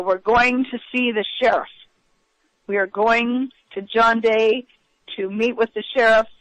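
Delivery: mild mock yell, deliberate and emphatic; retold yell. Passenger retells driver yelling to armed pursuers, mild yell. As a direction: re-enact a yelled announcement without full volume. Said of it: "and he yells".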